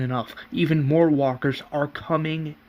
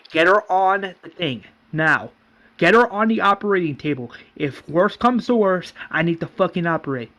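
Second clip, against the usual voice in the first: raised, hurried commands; urgent orders; 3 semitones higher, 3 dB louder than usual. Retold or imitated. Nurse orders helpers to the operating table, urgent. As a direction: order them about with urgency.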